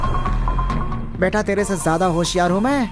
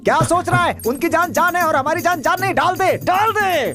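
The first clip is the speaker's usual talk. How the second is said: heated urging, stretching the last command; urgent goading. Acted. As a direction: push a hesitant friend into acting. Urgently pushing a hesitant accomplice.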